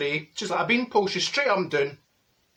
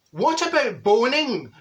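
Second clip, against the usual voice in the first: shop lady call; 6 semitones higher, 4 dB louder, slower than usual. Retold or imitated. Barbara shouts into the changing room.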